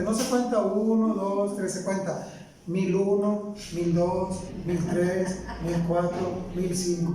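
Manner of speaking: counting each second deliberately; demonstrating slow counting. Shown as a demonstration. Preacher teaching angry people to count slowly, calm demonstration. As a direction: show how to count off real seconds. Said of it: "pero cuente como se cuenta realmente".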